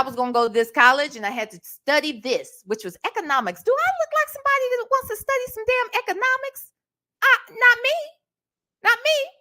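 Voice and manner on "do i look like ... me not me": exasperated disbelief. Retold or imitated. Exasperated rhetorical outburst about economics.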